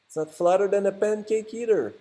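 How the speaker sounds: mock French Canadian accent, lightly done. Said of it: "Sorry about my French Canadian accent".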